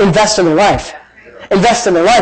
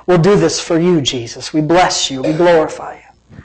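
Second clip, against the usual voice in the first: congregational prayer; 2 semitones lower than usual. Real, not acted. Pastor closing the sermon in prayer to God, earnest and measured. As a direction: lead the church in prayer, settling down from the sermon.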